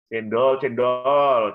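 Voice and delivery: mock cendol seller calling in the street; street vendor call. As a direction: call out to passing buyers.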